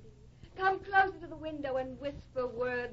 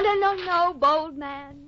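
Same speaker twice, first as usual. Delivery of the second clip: coy protest; 4 semitones higher, 10 dB louder, slower than usual. Acted. Actress fends off eager cowboy.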